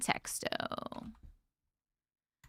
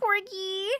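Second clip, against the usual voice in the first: excited thanks; 9 semitones higher than usual. Real, not acted. Thanking a viewer for a gift.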